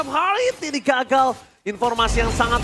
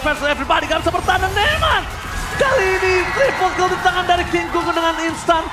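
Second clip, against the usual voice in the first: fighting game announcer. Real, not acted. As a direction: shout the play like an esports caster. Caster hyping a triple kill.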